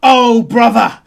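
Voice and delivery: big, loud, high exclamation; hearty theatrical outburst; exuberant dock worker. Acted. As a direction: boom it out with gusto. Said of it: "He goes".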